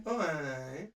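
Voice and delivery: facetious Scottish. Shown as a demonstration. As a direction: trail a jokey stage-Scot "oh, aye". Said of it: "when you and I are doing a bit, it's usually".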